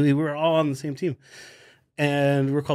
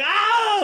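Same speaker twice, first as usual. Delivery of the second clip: high yelp of pain; mock scream. Injured player screaming as teammates kick his foot, high yelp. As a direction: scream like your foot got kicked. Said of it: "screaming like crazy".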